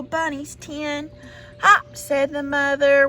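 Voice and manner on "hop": bouncy hop. Acted. Mother rabbit says hop.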